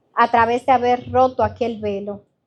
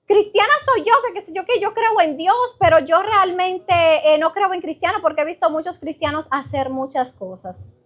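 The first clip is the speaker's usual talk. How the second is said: higher pitched neighbor lady; friend's voice; 4 semitones higher than usual. Retold or imitated. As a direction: voice her a bit higher. Imita a la amiga. (la amiga, un poco más aguda)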